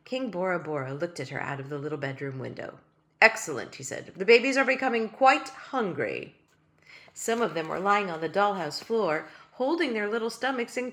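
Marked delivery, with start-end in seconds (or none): 3.2-3.8 tiny king's voice. Acted. Tiny king approves. 4.1-6.4 tiny king's voice. Acted. Tiny king worries.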